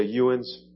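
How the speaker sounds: Ewins said as a two-syllable regional you-ones; local dialect word. Retold or imitated. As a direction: say Ewins like an Ohio Valley local. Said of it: "some of you say".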